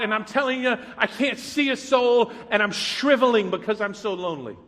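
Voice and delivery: a psalmist's candid complaint, lightly voiced; honest lament prayer. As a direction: pour out your loneliness to God. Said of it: "That's the way they talk".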